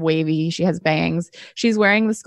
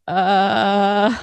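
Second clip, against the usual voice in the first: long imitated creak on "uh"; drawn-out door noise. Player voices the door slowly opening, drawn-out noise. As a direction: stretch "uh" out like a slow door.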